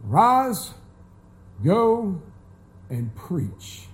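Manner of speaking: "Rise, go, and preach" soft and low, fading on "preach". Shown as a demonstration. Preacher to congregation, setting the second command quietly against the first. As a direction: hush the second command, letting "preach" drop away. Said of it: "Two totally different commands".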